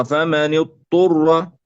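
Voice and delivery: اضطر with ض merged into ط; اضطر with no separate ض; wrongly merged dad. Shown as a demonstration. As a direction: swallow the ض of اضطر into a doubled ط. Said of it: "هذا خطأ".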